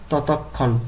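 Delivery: ততক্ষণ said carefully as totok-khon; pronunciation drill. Shown as a demonstration. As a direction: model ততক্ষণ with the double k clear. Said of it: "উচ্চারণ করতে হবে এইভাবে".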